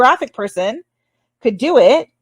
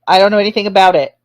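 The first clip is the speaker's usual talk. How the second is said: snappy; 3 dB louder, faster than usual. Real, not acted.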